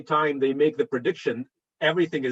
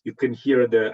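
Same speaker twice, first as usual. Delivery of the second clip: muffled, as if through a hand; muffled recording, covered mic; 4 semitones lower than usual. Real, not acted. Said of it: "apologize for the kind of muffled, uh, uh, recording".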